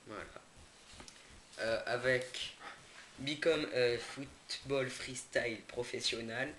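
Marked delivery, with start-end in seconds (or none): 3.2-6.5 slow English with a French accent; accent français en anglais. Real, not acted. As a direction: read the English words haltingly in a French accent. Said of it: "Désolé pour mon accent anglais". (anglais lu lentement avec l'accent français)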